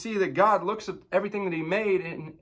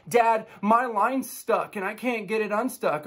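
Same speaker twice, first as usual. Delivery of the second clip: put-on kid complaining; 6 semitones higher than usual. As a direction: drag it out like a stuck kid. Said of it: "he goes".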